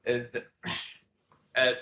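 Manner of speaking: low, soft, halting disbelief; dad's personality. Retold or imitated. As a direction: lightly play a fed-up dad lost for words. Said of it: "turned into my dad's personality".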